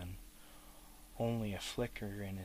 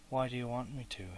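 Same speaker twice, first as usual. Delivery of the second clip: sharp and suspicious; 3 semitones higher, faster than usual. Acted. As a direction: snap with suspicion. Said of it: "sharp with suspicion and annoyance".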